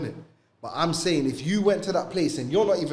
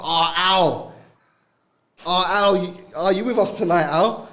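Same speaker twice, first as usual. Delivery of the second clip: coaxing call out; 6 semitones higher, 8 dB louder than usual. Retold or imitated. Coworkers calling Ali to party.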